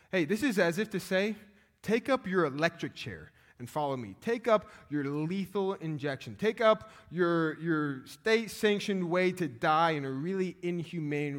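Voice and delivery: forceful paraphrased command. Acted. Voicing Jesus's call in modern terms.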